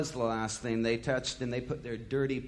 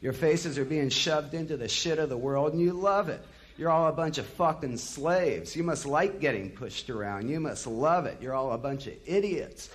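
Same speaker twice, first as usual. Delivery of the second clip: louder and higher, furious rant; raging rant; 4 semitones higher, 3 dB louder than usual. Retold or imitated. A singer raging at the Miami crowd, loud and high. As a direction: tear into the crowd, building fury. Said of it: "he bellowed".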